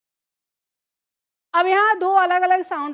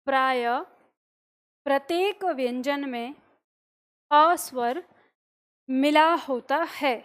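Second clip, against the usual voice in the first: repeated dictation. Shown as a demonstration. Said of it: "अगला point लिखिए".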